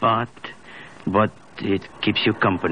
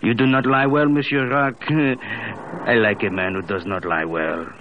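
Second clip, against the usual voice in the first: amused tease; 2 semitones higher than usual. Acted. Teasing, laughs.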